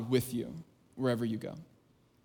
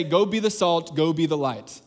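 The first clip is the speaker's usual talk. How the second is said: brisk order, raised a touch; demanding command. Retold or imitated. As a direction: bark it like a mild demand. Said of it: "He doesn't say".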